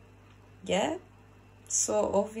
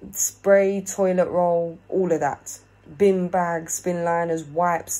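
emphatic list; 6 dB louder, slower than usual. Real, not acted. Listing overpriced cleaning goods.

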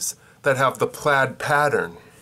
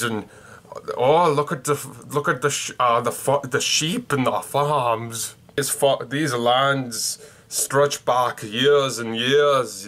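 bad Scottish accent; slower than usual. Shown as a demonstration. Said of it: "Here's me trying to sound Scottish on my own".

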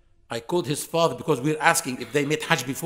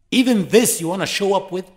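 indignant rebuke; 4 semitones higher, 6 dB louder than usual. Real, not acted. Preacher rebuking showing off.

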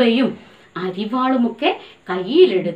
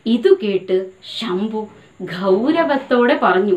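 slow stressed reading; slower than usual. Shown as a demonstration. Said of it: "underline, ഗൗരവത്തോടെ".

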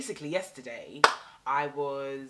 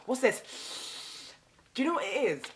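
mocking whisper; 7 semitones higher than usual.

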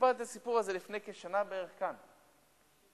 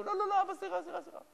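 put-on frightened children; 3 dB louder, faster than usual. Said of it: "הילדים מאוד פחדו".

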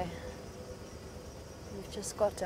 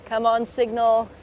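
pleading; 2 semitones higher, 6 dB louder than usual. Real, not acted. Urging weak signal.

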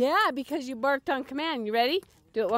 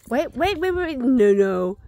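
barked order; 7 dB louder than usual. Real, not acted. Stopping dog from grabbing treat.

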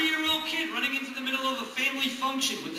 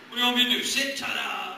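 eager dog voice; 3 semitones higher, 9 dB louder than usual. Acted.

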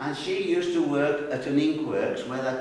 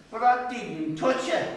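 put-on high, slow, aggrieved little boy; boy whining that he did nothing; protesting boy; 8 semitones higher, slower than usual. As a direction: plead your innocence like a wronged kid. Boy protesting in retold story.

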